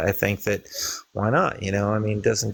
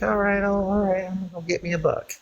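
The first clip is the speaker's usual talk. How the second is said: high, quick hammed-up preacher heading off hunting; joke-teller voicing a preacher skipping church to hunt, high and fast; eager preacher; 10 semitones higher than usual. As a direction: pitch it way up and rush it like a giddy preacher off to bag a buck.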